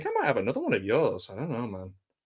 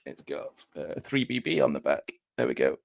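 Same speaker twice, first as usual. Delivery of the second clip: off mic; 10 semitones lower, 5 dB quieter than usual. Real, not acted. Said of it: "focus, you bastard".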